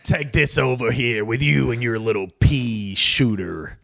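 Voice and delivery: slow drawling gunslinger; slow taunting cowboy outlaw. Pretend. Cowboy role-play banter.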